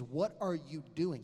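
slow, drawn-out mock disbelief; each word dragged out in reproach; exasperated retold scolding. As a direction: imitate a doctor slowly taking a patient to task. Doctor scolds him over his diet.

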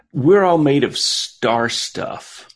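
slow, dreamy stoner voice; spacey stoner musing; stoned. Pretend. Stoner philosophizing bit.

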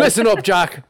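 hint of an old politician; light presidential impression; Joe Biden. Friend joining the bit, lightly impersonated politician. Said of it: "Joe Biden's behind this bit".

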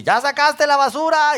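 wife reminding husband about trash, mock nagging. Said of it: "mi esposa me dice".

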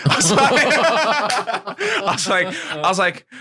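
high, breathless laughing; real laughter over the words. Real, not acted. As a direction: crack up mid-story. Laughing at the memory.

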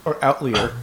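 OUTLIER said with an EE sound, like out-LEER; alternate pronunciation. Shown as a demonstration. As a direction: say outlier as out-LEE-er. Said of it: "that's another way to pronounce it".

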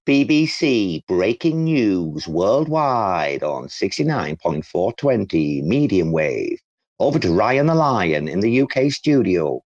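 slow, grand newsreader intro; hammed-up BBC breaking-news voice; mock radio announcer. Handing over to Ryan on air, mock newsreader voice. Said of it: "mock BBC news intro".

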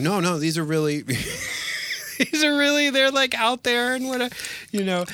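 high, loud, laughing protest. Retold or imitated. Telling the director he means proud gay men, laughing high and loud. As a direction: laugh through a flustered denial. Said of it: "And I was like".

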